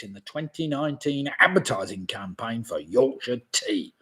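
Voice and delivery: hushed quiz-host whisper. Shown as a demonstration. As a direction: drop to a breathy whisper on the ending. Re-reading the quiz question.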